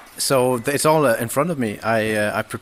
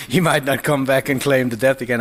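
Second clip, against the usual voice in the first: laughing; 4 semitones higher, 5 dB louder than usual. Real, not acted. Joking about his brother's debt.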